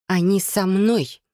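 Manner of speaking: slow, pressed insistence. A narrator's reading. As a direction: lean on every word firmly. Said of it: "сказала с нажимом".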